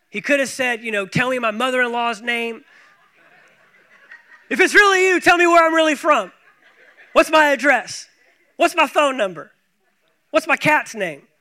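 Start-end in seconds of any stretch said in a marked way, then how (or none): 1.1-11.3 mock quiz, laughing. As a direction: tease it like a silly test. Mock Peter quizzing Jesus, laughing.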